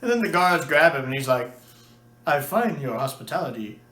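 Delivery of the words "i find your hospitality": flippant. Retold or imitated. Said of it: "how flippant he is here".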